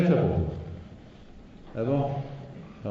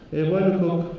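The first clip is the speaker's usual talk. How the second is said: plain reading voice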